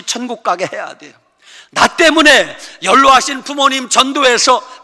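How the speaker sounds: loud, high preaching at full force; impassioned sermon climax; fiery preaching. Acted. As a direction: preach it hard to the congregation.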